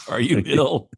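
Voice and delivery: laughing. Real, not acted. Laughing echo of the joke.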